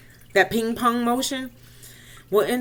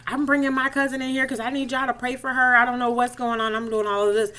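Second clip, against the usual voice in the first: excited request; 5 semitones higher than usual. Retold or imitated. Excitedly asking women to pray.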